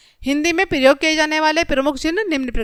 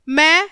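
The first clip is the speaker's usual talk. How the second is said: मैं set apart as a list item; pause after मैं; 3 semitones higher, 4 dB louder, much slower than usual. Shown as a demonstration. Teacher demonstrating a comma to children, pause after मैं. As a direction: say मैं alone, then stop for the comma. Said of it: "यहाँ पर हम थोड़ी देर के लिए रुकते हैं".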